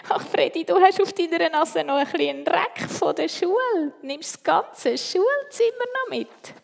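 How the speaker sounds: high, loud, laughing tease; amused teasing. A narrator's reading. Christoph teases Freddy about a dirty nose, amused. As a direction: tease a friend, tickled by it. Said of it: "Plötzlich muss er lachen".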